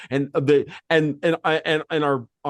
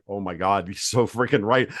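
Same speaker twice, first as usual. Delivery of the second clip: imagined awe; 9 semitones lower than usual. Retold or imitated. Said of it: "the look on Vince's face was like".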